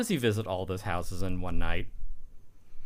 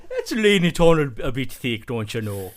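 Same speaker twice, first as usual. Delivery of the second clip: louder hammed-up posh Englishman; Julian Sands impression; 2 semitones higher, 6 dB louder than usual. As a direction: lay on the stuffy Brit voice.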